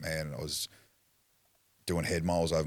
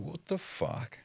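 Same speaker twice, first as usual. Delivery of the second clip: disbelieving outburst; 13 semitones higher, 3 dB quieter, much slower than usual. Retold or imitated. Hearing the charges.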